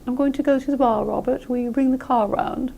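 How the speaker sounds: British accent, bar and car with no final R. Shown as a demonstration. Teacher demonstrating non-rhotic British English. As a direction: say it lightly British, dropping the final R. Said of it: "If you're speaking British English".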